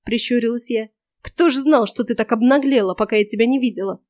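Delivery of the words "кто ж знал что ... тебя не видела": exasperated. Acted. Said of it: "в сердцах бросила старуха".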